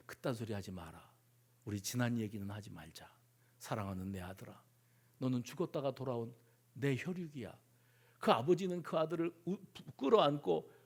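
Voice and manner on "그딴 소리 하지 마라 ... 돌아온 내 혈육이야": very soft, low, loving reassurance; tender father. Acted. Father welcomes his returned prodigal son, tenderly hushed. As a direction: hush the confession with fatherly love.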